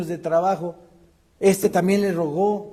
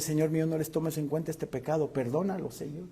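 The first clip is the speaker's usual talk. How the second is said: quiet prayer; 9 dB quieter, faster than usual. Shown as a demonstration. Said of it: "Y también decirle".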